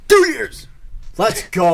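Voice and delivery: loud, high celebratory shout; excited cheer. Real, not acted. Celebrating podcast anniversary.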